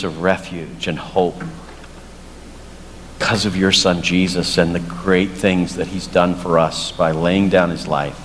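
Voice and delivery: closing prayer. Acted. Pastor praying for the congregation, low and earnest.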